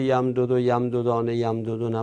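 یم دو دو، یم دو دانه، یم دو دونه quick and low; rattled-off forms. Shown as a demonstration. Teacher citing what Arabs never say, in a quick offhand run. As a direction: run through یم دو دو and its forms without gaps. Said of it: "عرب زبان هیچ وقت نمیگه".

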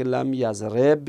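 لم یضرب stopped on the b, no final vowel; vowelless final b. Shown as a demonstration. Teacher showing another case ending, final b left vowelless. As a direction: close یضرب on a bare b, "lam yazreb". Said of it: "این اعراب دیگه".

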